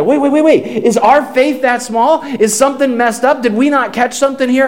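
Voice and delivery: mock panic of worried followers; a touch of fretful alarm, rushing the questions; alarmed disciples. Disciples freaking out.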